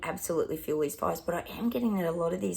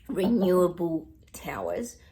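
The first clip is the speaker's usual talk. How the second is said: sarcastic whisper. Real, not acted. Mocking the official label.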